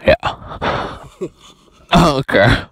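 talking with phone in mouth; words muffled around a phone in teeth; phone held in teeth. Real, not acted. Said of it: "Put the phone in my mouth".

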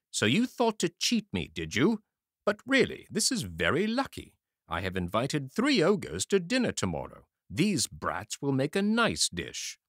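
high, loud taunting ogre; gloating ogre. A narrator's reading. Ogre gloating to his wife over the children, loud. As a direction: relish the catch.

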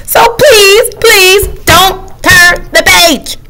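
high, slow drawn-out plea; pleading. Acted. Character begging the reader not to turn the page, pleading.

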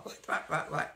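imitating a flustered British teacher's rapid "what, what"; mock-exasperated British accent, one what leaping high. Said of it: "she sounded like a duck on the floor".

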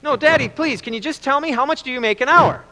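put-on high-pitched child begging Dad; pleading little boy. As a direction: plead like a five-year-old. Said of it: "his five-year-old son".

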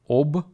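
Об-ла-дать, each syllable apart; Об-ла-дать spelled out in beats; split into syllables. Shown as a demonstration. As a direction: break Об-ла-дать into three beats. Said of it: "обладать has three syllables".

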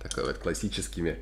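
container held at mouth; speaking into a jar; talking while sniffing food. Real, not acted. Seen 0: Man holds kimchi container to nose while talking; no chewing seen.

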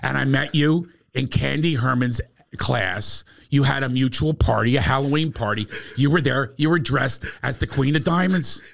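lightly voiced eager classmate; imitating Bruce. Bruce telling Howard his reasons, earnest and eager. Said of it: "He goes".

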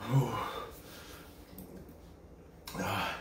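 strained, quiet, pained breaths; burning mouth. Real, not acted. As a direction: speak through a scorched mouth. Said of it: "it's in the throat worse now".

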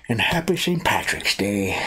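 slow, bad Irish accent; a shaky stab at an Irish accent. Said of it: "Is that your attempt at Irish?".

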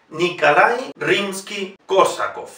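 Nikolai as "Nikalai", slowly; Rimsky-Korsakov slowly after a "Nikalai" with A; unstressed O as A. Shown as a demonstration. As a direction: model Nikolai with A for O. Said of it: "pronunciamos A".

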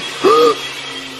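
real gasp of fright; startled, wordless gasp; frightened gasp. Real, not acted. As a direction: suck in air in alarm. Frightened by noises in house.

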